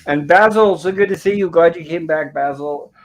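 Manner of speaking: light up at seeing Basil; delighted welcome. Real, not acted. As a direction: glad hello to a regular who came back. Host greets returning chatter.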